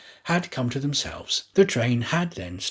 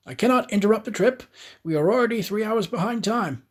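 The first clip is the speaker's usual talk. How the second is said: higher, brisk refusal; firm conductor; 8 semitones higher than usual. Acted. Conductor refusing Aouda, firm and hurried. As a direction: rush through the excuse.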